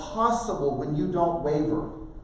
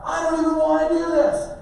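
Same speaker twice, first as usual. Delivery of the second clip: high, loud protesting yell; yelling back; 12 semitones higher, 6 dB louder than usual. Retold or imitated. Son yelling back at parent on the trail, protesting. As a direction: yell your refusal back across the hill. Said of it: "then he yells back".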